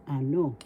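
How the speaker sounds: ano with the accent on "no"; stress on second syllable. Shown as a demonstration. Teacher telling students how to pronounce it, stress on second syllable. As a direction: lean on the final syllable of ano. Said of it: "so you pronounce this or bigkas".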